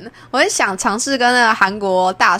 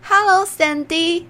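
slow, higher put-on voice for a classmate; 模仿同学慢叫错名字; 9 semitones higher, much slower than usual. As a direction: stretch out the greeting, sure of himself. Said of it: "他看到我之后又说". (慢慢地用另一种嗓音说出错名字)

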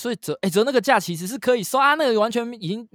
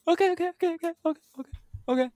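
slow sarcastic OK; 9 semitones higher, 4 dB quieter, much slower than usual. Real, not acted. Mocking bad math.

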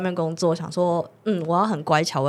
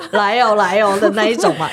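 mock vendor call; 4 dB louder than usual. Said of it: "你要不要喊一下？".

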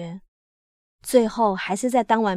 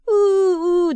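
high, drawn-out mock sobbing; imitated wailing; 9 semitones higher, 5 dB louder than usual. A narrator's reading. Narrator voicing a child crouched on the ground, imitated wailing. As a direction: wail "woo-woo" like a crying child. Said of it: "的哭".

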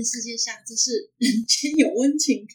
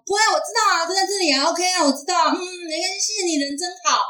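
higher, easygoing mimicry of her; carefree woman; 7 semitones higher than usual. Teller imitates the frank woman thanking him, light and higher. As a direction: brush it off cheerfully, a bit higher. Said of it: "他就是那种大方".

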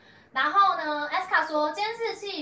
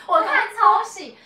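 laughing; 7 semitones higher, 10 dB louder, slower than usual. Real, not acted. Laughing at the overacting.

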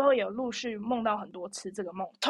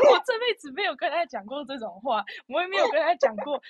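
laughing; 4 semitones higher than usual. Real, not acted. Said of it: "laughing crying".

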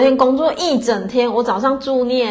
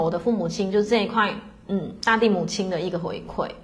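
softer, heartfelt, trailing almost to a breath; sincere soft reply; 3 semitones lower, 5 dB quieter than usual. Retold or imitated. Telling a new friend why she gives back to the land, softly sincere. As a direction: speak it gently, from the heart.

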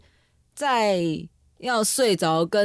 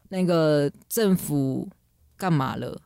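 drowsy sleep-talk; 4 semitones lower, much slower than usual. Retold or imitated. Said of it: "跟你讲完全无关联的一句".

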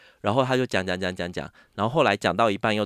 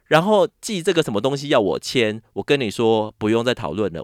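louder, higher, fed-up outburst; furious retort; 3 semitones higher, 6 dB louder than usual. Retold or imitated. Agent enraged over his misspelled name, loud angry retort. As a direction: imitate the agent blowing up at her. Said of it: "然后看到以后更火".

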